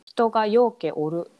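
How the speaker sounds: 人がようけおる said the Hiroshima way, with ようけ and おる; Hiroshima dialect. Shown as a demonstration. Teaching a Thai friend, Hiroshima dialect demo. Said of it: "人がたくさんいるとかは".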